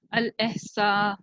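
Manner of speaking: drawn out syllable by syllable; slow model reading. Shown as a demonstration. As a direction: read अल एहसा slowly for the class. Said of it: "आगे आप नून लगाएंगे तो पूरा word हो जाएगा".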